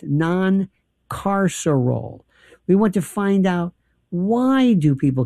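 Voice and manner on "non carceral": "non-carceral." drawn out slowly, mocking; scare quotes. Real, not acted. Host mocking reform jargon, slow sarcastic quote. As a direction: say "non-carceral." as if holding it at arm's length.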